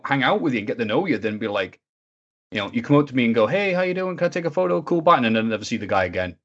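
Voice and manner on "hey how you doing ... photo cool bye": high-pitched, perfunctory fan chirp; mock eager fan. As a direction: mimic an eager fan who is already leaving. Mimics a brisk photo-seeking fan.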